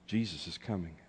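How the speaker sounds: soft, low and solemn; understated, weighty announcement; hushed proclamation. Real, not acted. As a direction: let it fall quietly into the room. Hushed start of repeated refrain.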